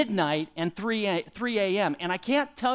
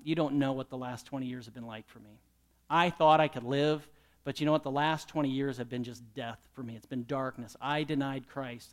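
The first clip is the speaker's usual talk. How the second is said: low, soft dying confession; quietly mourning; 4 semitones lower, 4 dB quieter than usual. Retold or imitated. A dying leader confesses his regret, quiet and sad. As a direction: let it sink, a touch of grief. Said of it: "he cried".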